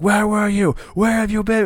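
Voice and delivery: imitating Miro demanding answers; Miro raging. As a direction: bellow it like a furious brute beating someone. He's like.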